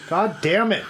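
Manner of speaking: loud exasperated curse; frustrated. Real, not acted. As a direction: blurt it out, fed up. Mock frustration.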